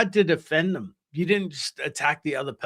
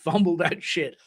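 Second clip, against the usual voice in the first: ordinary delivery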